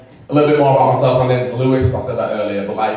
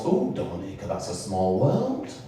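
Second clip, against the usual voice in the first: mimicked white people; 4 semitones higher than usual. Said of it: "I mean, the white people".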